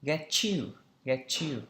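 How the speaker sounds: "get you" linked with a ch sound; linked pronunciation. Shown as a demonstration. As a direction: run "get you" together as get-chew. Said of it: "chúng ta sẽ phát âm là".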